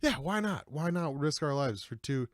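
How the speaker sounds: eager Scooby and Shaggy. Retold or imitated. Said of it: "and they're like".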